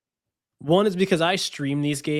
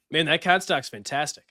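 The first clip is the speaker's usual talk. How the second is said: a light, believable Boston accent; easy everyday Boston accent, nothing overdone; normal Boston accent. Shown as a demonstration. Boston accent for a card stock ad read. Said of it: "your normal Boston accent".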